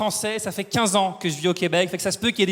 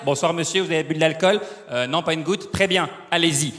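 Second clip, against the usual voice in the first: lower, easygoing Quebec officer voice; polite Quebec cop; 5 semitones lower than usual. Acted. Comic acting out a gentle police checkpoint in Quebec, easygoing officer. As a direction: play a relaxed, friendly Quebec cop.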